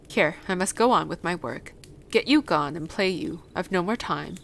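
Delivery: a touch of brusque scolding; lightly voiced gruff Yorkshire gardener, dismissive. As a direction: lightly play the old man shooing her off.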